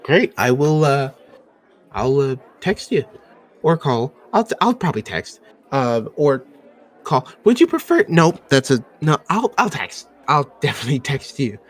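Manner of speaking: eager, tripping over his words; nervously overexplain texting; high, hurried and awkward; flustered dwarf. Acted. Dwarf stammers over text or call.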